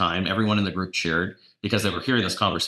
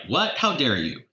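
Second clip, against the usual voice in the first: high, outraged squeak of a retold protest; mock indignant shock; 6 semitones higher than usual. Agent to coach, pitch jumping high in mock outrage. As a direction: play back your own offended outburst. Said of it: "And I'm like".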